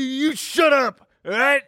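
false bravado. Acted. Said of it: "talking some smack".

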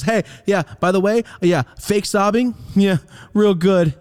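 high, loud mock praise; sarcastic telling-off. Son calling out mom's fake sobbing, sarcastic. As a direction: let her have it with biting sarcasm. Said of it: "I let my mom have it".

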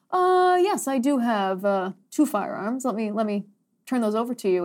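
feigned, stalling cooperation; mock compliance. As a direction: play at meekly handing something over. Mock answer to confiscating government.

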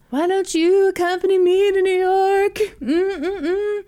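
high, hammed-up sultry invite; sexy voice. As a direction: purr the invitation. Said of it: "This is my sexy voice".

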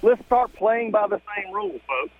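muffled, echoey phone call; like calling from inside a tunnel; bad phone line. Real, not acted. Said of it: "You sound like you're in a tunnel".

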